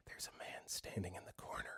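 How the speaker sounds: breathless whisper into the ear; eerie whisper. Retold or imitated. Sleeptalking girlfriend whispers into his ear, eerie whisper. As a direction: whisper it close, chilling. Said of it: "whispers in my ear".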